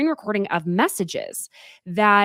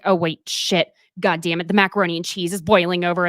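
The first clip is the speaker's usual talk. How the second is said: flustered mock panic. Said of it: "I am like".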